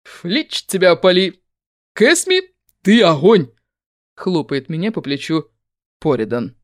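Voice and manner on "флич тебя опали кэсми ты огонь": excited cheer. Acted. Firefighter cheering her on.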